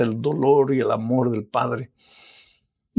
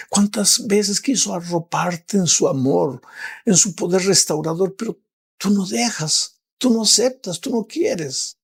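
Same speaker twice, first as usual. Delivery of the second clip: higher and higher, hammering each tú; rising preaching; 7 semitones higher than usual. Acted. Preacher confronts the viewer who refuses God, climbing higher. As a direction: press the listener hard.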